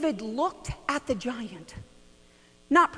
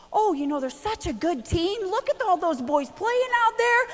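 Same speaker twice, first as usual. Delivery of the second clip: chirpy dodge, higher; evasive deflecting mom; 6 semitones higher than usual. Retold or imitated. Mom dodging a question at the game, chirpy and evasive. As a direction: mom brightly changing the subject. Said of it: "And I'm like".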